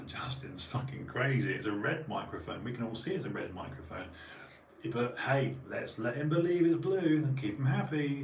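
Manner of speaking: lightly voiced friend humouring him; mock Lee. Imitating Lee telling Doug, mock humouring. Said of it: "you looked at Doug and went".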